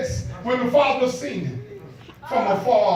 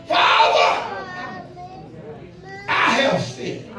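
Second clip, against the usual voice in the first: hushed confession; 6 semitones higher, much slower than usual. Acted. Son confessing to his father.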